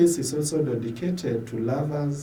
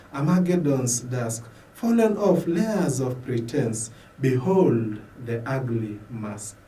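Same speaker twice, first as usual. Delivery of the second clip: raised, earnest lines, lifting on Lord; prayer poem; 3 dB louder than usual. Acted. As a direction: recite it as a solemn prayer.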